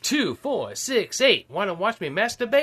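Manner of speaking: cheerleader's voice. Acted. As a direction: chant it like a reluctant cheerleader. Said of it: "can you do it in her voice".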